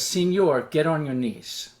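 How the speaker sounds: lightly imitated soldier's order in broken English; a hint of accented broken English, commanding. Soldier orders passenger to kneel, in broken English. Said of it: "he talks in broken English".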